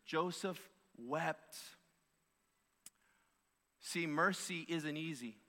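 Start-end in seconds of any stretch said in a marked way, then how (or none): 0.0-1.6 Joseph wept said very slowly and softly; slower, softer. Shown as a demonstration. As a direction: let Joseph wept fall quiet and very slow. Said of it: "just those two words".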